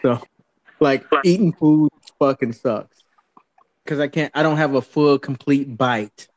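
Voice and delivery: can't close my mouth after the dentist; talking with jaw held open; mouth propped open. Real, not acted. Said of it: "now I can't close my mouth".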